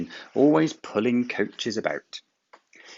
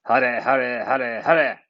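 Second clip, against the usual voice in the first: laughing; 5 semitones higher, 5 dB louder than usual. A narrator's reading. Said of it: "laughed Gordon in front".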